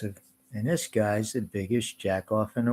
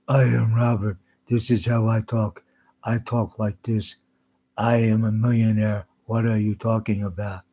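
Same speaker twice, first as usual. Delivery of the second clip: louder, mocking impression of Robert; 6 dB louder than usual. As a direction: boast as Robert, a touch pompous. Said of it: "'Cause Robert talks like this".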